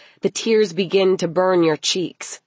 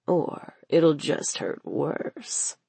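slow, soft threat; menacing villain; 3 semitones lower, 6 dB quieter, slower than usual. Acted. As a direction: draw the threat out quietly. Knife-wielding man threatens the girl.

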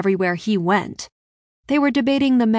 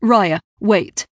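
louder, urgent call to stop; calling after someone; 5 dB louder than usual. A narrator's reading. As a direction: call out to halt someone leaving. Prince calls after her as she leaves.

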